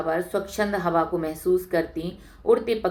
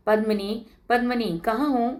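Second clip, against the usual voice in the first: raised, higher call to a friend outside the house; 4 semitones higher than usual. Acted. Suman calls her friend Padmini from outside, raised eager call. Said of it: "बाहर से ही आवाज लगाती हुई".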